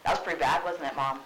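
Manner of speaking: loud mocking jab at mom; sarcastic Hamlet. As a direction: needle her with sarcasm. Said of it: "she's like".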